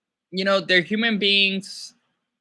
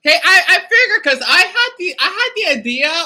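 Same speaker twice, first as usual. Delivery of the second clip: laughing while talking, higher and louder; chuckling through the words; 10 semitones higher, 5 dB louder than usual. Real, not acted. Reacting to a viewer in chat, laughing.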